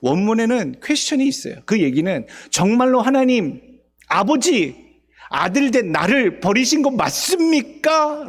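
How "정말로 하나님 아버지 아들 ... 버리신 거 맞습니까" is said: pleading question. Acted. Jesus pleading question on cross.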